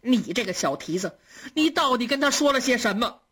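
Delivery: grandmother's mild angry scolding; a touch of stern rebuke, stress on 你. Acted. Grandmother scolding the maid, mildly angry. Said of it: "骂道".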